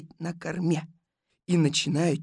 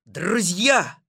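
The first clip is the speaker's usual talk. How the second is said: loud, higher call to a crowd; ораторский возглас; 5 semitones higher, 9 dB louder than usual. Acted. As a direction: hail the crowd from a stump. Orator addressing the tourists. (громкий ораторский призыв)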